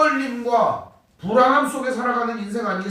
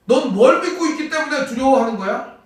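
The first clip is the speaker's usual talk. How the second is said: pressing question; 4 semitones higher, 5 dB louder than usual. Retold or imitated. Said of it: "똑같은 질문을 하고".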